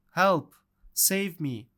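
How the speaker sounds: loud call for help, fading; scream. Acted. The girl calls for rescue from the wolf, loud then easing. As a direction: shout it out, then let it drop. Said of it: "screamed Red Riding Hood".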